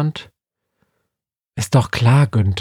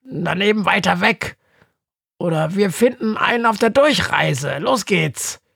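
higher, brisk little bird voice for Günther; higher voiced Günther cheering Befana up; Günther, cheerful; 8 semitones higher than usual. A narrator's reading. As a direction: chirp it as the upbeat raven Günther. Günther's voice in the story.

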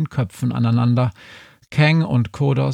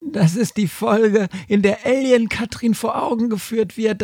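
much higher, strange know-it-all sheep voice; 12 semitones higher than usual. A narrator's reading. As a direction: rattle off the TV listing as a smug sheep. Sheep recites TV listing. (hohe, besserwisserische Schafsstimme)

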